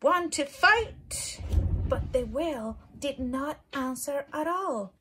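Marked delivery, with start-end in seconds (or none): 0.0-1.4 high, loud, cheeky challenge; grouchy ladybug voice. Acted. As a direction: pick a fight in a squeaky bug voice. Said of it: "said the grouchy ladybug".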